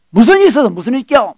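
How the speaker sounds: quick, testy acted retort; mild mock agitation. Husband rebuffs his wife's gentle question, mock agitated and fast. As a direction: play a husband getting worked up. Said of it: "더 흥분하고 있잖아요".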